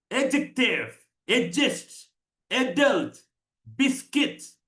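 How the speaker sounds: crisp, separated എഡ്ജക്റ്റീവ്, എഡ്ജസ്റ്റ്; each word alone, English vowels, falling end; model English pronunciation. Shown as a demonstration. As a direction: model അഡൽട്ട് and ബിസ്ക്കറ്റ് as careful word list. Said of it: "വേറൊരു ഉച്ചാരണം ഞാൻ നിങ്ങളെ ഒന്നുകൂടി കാണിച്ചു".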